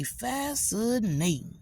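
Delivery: high, slow drawn-out fascinating; mock fascination. Answering the neighbor with high drawn-out mock interest. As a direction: stretch it out, mock-impressed. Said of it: "I say".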